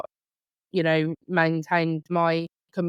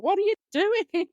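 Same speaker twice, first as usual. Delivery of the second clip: retold road rage; 13 semitones higher than usual. Mum yelling at a driver who cut her off, high mock outrage. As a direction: squeal it like a mum venting behind the wheel. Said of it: "the profanities that came out of my mouth".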